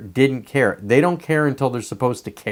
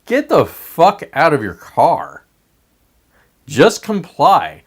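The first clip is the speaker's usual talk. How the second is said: slow, loud barked orders; mock police command; 4 dB louder than usual. Cops surrounding her car, slow loud commanding shout. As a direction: bark it like a cop at a car window. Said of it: "they're just saying".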